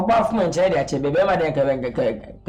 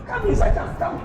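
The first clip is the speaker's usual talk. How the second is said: calling out. Real, not acted. Calling guest into the house.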